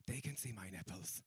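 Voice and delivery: very soft, low aside; furtive inner voice. Retold or imitated. Comedian's subconscious worrying about the spotlight, furtively hushed. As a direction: murmur it like a private worry.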